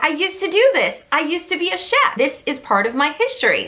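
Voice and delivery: high, eager rush of discovery; proud thrilled reveal; retold excitement, clearly lifted; excited realization. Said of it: "she becomes excited".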